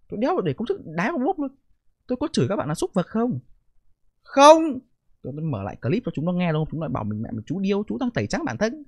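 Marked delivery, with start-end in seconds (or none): 4.2-4.6 a sharp, much higher and louder no; emphatic no. Real, not acted. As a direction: slam down the denial. Emphatic denial.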